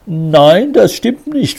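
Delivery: high, loud, insistent protest; vehement denial. A narrator's reading. Suspect denies the charge to the police, vehemently. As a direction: deny it hard, voice jumping up. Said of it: "verteidigte er sich vehement".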